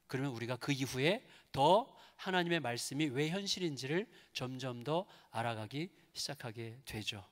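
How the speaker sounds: normal talking voice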